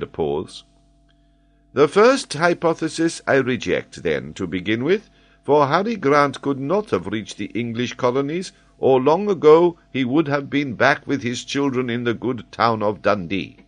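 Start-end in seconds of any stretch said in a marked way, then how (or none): 1.7-13.6 high, louder, lively professor voice; an excitable scholar holding forth; high, animated geographer explaining; Paganel, eager learned Frenchman. Acted.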